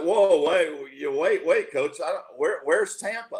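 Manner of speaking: mock stunned, high, flustered, stumbling stammer. Recalling the coach's call saying you were drafted, reenacting your own stunned reaction. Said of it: "and I'm like".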